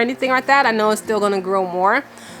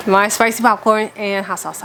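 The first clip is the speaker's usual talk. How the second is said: winded, talking between breaths; breathless from talking fast. Real, not acted. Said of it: "I'm getting out of breath".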